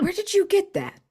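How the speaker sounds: high unvoiced whisper. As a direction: hiss the question in a shocked whisper. Shocked whisper at kid.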